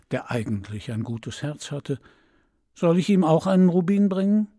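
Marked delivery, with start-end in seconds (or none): 2.7-4.5 eager question. Acted. Eifrige Frage des Vogels.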